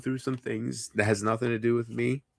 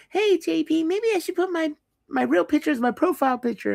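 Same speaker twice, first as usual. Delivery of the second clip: high-pitched mock voice of a friend; imitating Casey. Friend asks JP about her profile picture, high mimicking voice. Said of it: "she'd be like".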